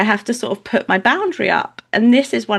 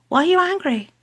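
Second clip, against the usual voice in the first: higher-pitched questioning of an angry relative; acted challenge; 9 semitones higher than usual. Mother to her angry family, acted challenge. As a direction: act out calling someone on their anger.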